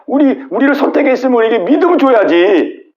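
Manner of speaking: mildly hammed-up grievance, voice lifted; complaining excuse. Jews blaming God for withholding faith, complaining. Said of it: "변명만 하는 거죠".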